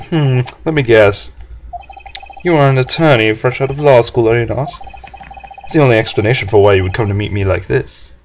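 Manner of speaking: lightly voiced pompous executive; Red White. Executive introduces himself to lowly lawyer, arrogant. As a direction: talk down with grand self-importance. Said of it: "this guy's arrogance meter is off the scale".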